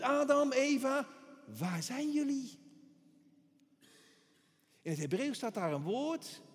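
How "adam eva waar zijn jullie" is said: God calling out. Acted. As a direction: call out like God searching. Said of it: "Die roept".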